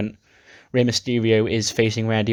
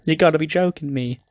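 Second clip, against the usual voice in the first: high, protesting disbelief; mock exasperation; 6 semitones higher than usual. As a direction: protest after her as she runs off. Billie still chasing, protesting.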